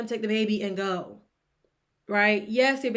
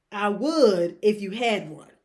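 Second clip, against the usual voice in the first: slow mocking repeat; 2 semitones lower, 4 dB louder, slower than usual. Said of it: "I was confused".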